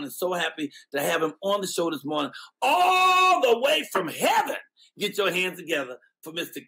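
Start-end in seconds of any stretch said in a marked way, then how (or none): 2.6-4.6 slow, high, loud announcer build; hyped host announcing the guest; grand intro. Acted. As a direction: stretch it out like a big-stage intro.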